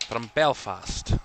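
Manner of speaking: slow, drawn-out mock Scottish accent on "From Belfast"; a playful put-on Scottish lilt. Shown as a demonstration. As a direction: slip into a jokey Scottish accent. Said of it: "Why do I use a Scottish accent".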